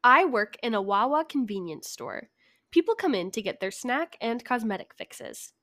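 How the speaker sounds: measured story narration; telling a written tale; story reading. Acted. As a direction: read it aloud with deliberate emphasis. Reads out a prepared story.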